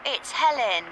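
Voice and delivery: faint, cutting-out mobile call; call dropping out. Acted. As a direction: voice fading on bad phone line. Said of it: "You're breaking up".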